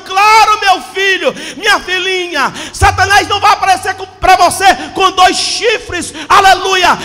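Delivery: loud, shouted sermon warning; preaching at full force. Acted. Pastor warning his flock that Satan deceives, shouting. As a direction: thunder it at the congregation. Preacher mocks devil image, warns.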